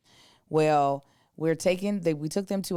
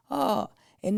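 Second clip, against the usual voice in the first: imitating Asian accent; 6 semitones higher than usual. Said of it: "he's got a thick accent".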